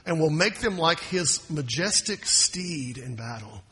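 preacher reading the prophecy aloud; scripture reading. Acted. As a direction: read it rising toward a proclamation.

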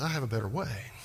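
understated voice of a patient God; calm answer from God. Acted. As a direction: answer the pleading gently and low. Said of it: "He says".

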